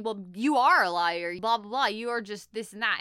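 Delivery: hammed-up sneer at a liar; boy insulting the magician, mock angry. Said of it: "calls him a hack".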